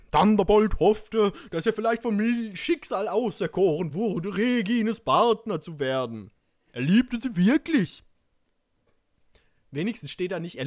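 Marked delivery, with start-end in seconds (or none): 0.1-8.0 lively, emphatic story reading; story narration. A narrator's reading. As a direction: read it out with theatrical emphasis.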